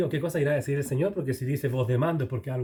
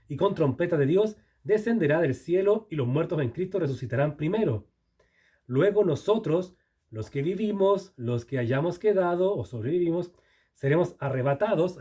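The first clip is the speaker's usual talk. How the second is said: raised, slowed reading of the rapture verse; scripture reading; 3 semitones higher than usual. Acted. Preacher reads the rapture passage aloud to the church, raised and solemn. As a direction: proclaim the verse to the room.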